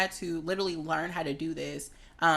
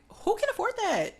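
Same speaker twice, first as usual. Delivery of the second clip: indignant question. Acted. Objecting to costly dress codes, indignant. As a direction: pitch leaping high in disbelief.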